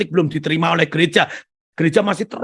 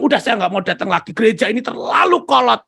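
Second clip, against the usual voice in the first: fed-up complaint; 4 semitones higher than usual. Retold or imitated. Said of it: "lalu dia bilang".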